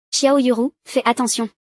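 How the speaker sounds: calling out a warning. Acted. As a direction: shout a warning across to her. Warning shout to Yuru. (crier un avertissement)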